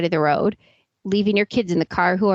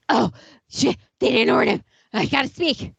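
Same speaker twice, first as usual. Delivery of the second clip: mocking quote; faster than usual. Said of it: "So I'm gonna talk like this, really exaggerated".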